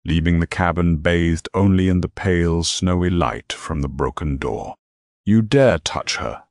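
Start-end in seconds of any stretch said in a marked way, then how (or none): 5.2-6.4 slow, high, loud inhuman growl; demonic growl. A narrator's reading. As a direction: snarl it like a demon king. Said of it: "Alistair's voice was not human".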